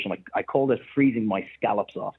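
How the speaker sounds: chuckling through the words; amused, laughing as he tells it. Real, not acted. Laughs through his own story.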